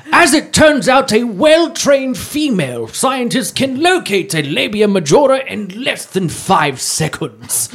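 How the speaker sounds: hushed, awed wildlife narrator, laughing; nature documentary. Pretend.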